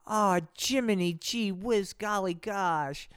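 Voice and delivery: put-on golly-gosh innocent kid; chirpy goody-goody boy; wholesome kid voice. Voicing cheerful Donnie.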